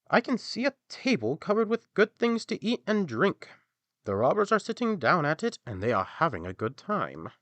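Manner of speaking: high, loud donkey telling what he sees; an excited animal peering through a window. A narrator's reading. Donkey reports the robbers' feast to friends, high loud voice.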